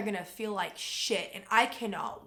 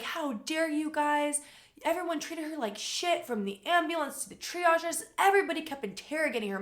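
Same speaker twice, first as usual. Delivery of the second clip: mom's outrage, pitched higher; indignant mom, raised pitch; angry mom; 5 semitones higher than usual. Retold or imitated. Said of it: "my mom was pissed".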